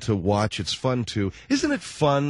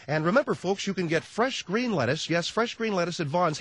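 higher-pitched mock commercial read; ad spot announcer; 6 semitones higher than usual. Announcer doing a grocery spot, mock salesman. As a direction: pitch it to the folks like an ad. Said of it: "He's doing a spot".

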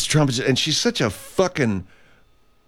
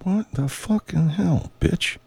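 slow, high mock outrage; drawn-out fake indignation; hammed-up offended voice; put-on outburst; 8 semitones higher, slower than usual. Sudden put-on voice.

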